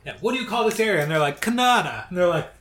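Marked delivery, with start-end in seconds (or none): 0.2-1.0 put-on Heritage Minutes accent. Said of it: "They just all have, like, accents". 1.4-2.0 high mock northern accent on "Canada"; imitating a Heritage Minute. Retelling a Heritage Minute to the cohost in its accent. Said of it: "They just all have, like, accents".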